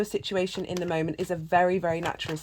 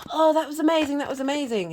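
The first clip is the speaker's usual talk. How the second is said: high, louder burst of mock amazement; amazed neighbors; 9 semitones higher, 3 dB louder, faster than usual. Storyteller voicing neighbors, loud mock amazement. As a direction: gush like relieved neighbors. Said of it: "and the neighbors go".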